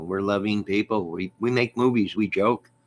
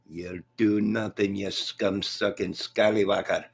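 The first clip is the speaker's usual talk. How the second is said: McGregor. Acted. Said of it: "McGregor, don't talk like that".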